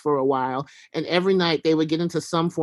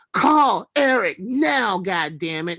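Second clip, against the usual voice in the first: mock scream; 3 semitones higher, slower than usual. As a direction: belt it out like a tantrum. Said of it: "he screams".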